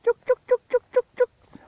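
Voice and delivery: high, sing-song chicken call. Real, not acted. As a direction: call the chooks in, high and repeated. Calling the chickens to come.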